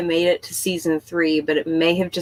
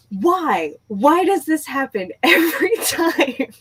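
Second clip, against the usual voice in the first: laughing mock wail, high on every time; hammed-up despair, breaking into a laugh; 7 semitones higher, slower than usual. Her favorite character died in episode two, mock despairing wail.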